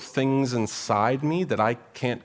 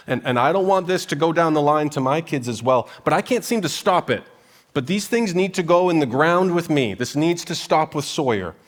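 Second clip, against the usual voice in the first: louder, higher, urgent confession; rising passionate plea; 4 semitones higher, 5 dB louder than usual. Real, not acted. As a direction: push it out like a heavy burden. Preacher's personal burden rising.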